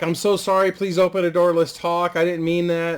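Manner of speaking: put-on grandma apologizing at the boy's door, mildly pleading. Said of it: "And she's like".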